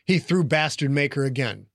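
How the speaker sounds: usual speaking voice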